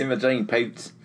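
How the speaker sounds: put-on name drawled in a Southern accent. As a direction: say "Imogen Poots" like a Southerner. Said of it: "a southern accent".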